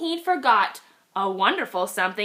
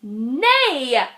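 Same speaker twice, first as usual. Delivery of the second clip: yelled; 3 dB louder than usual. Acted. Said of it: "they all yelled".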